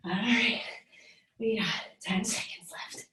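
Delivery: breathless whisper; whispered countdown. Real, not acted. Countdown during hard set.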